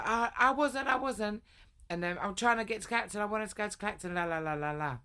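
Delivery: high, whiny mock voice; mocking boyfriend. Mocking her boyfriend backing down on the phone, high whiny voice. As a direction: squeak out the feeble denial.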